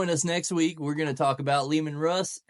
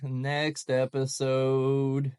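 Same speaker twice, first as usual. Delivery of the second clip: dramatic announcement; much slower than usual. Acted. Announcing the next episode.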